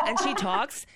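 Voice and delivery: "talks" tipped upward like a question; mocking upspeak. Shown as a demonstration. Host imitates anchor's habit, "talks" rising before the pause. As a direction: leave "talks" hanging on a rising tune. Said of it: "every time she pauses".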